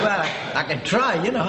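a light put-on posh voice; lightly posh English accent. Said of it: "This is me posh voice".

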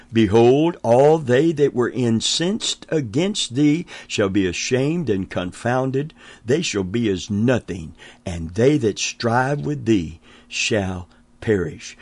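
measured preacher reading scripture; solemn reading of the verse. Acted. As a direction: read it out like holy writ. Reads scripture aloud in sermon.

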